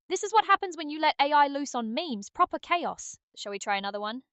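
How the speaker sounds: lightly put-on British accent, cheeky; a hint of a cheery British accent. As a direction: play it as a jokey Brit. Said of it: "can British Aria come out".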